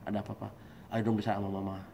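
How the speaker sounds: tender, low-key concern for a husband; gentle coaxing wife. Acted. Wife coaxing her troubled husband to open up, gently. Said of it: "Datang perempuan".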